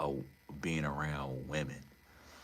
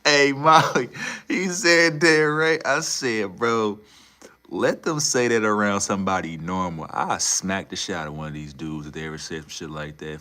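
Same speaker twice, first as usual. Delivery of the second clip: loud, much higher, outraged ranting; loud outrage; 6 semitones higher, 11 dB louder than usual. Real, not acted. Ranting to Molly about the rich dudes, loud and outraged. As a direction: shout it across, outraged.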